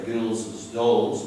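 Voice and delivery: put-on "girls' dolls" said as girlses dolls, extra syllable; slow demo of the wrong "girls' dolls" with -es added; deliberately wrong form. Shown as a demonstration. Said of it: "we don't say girls' dolls".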